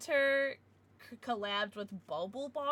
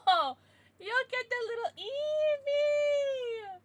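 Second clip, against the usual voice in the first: teary laughing; 13 semitones higher, 8 dB louder, slower than usual. Real, not acted. Overwhelmed by a gift.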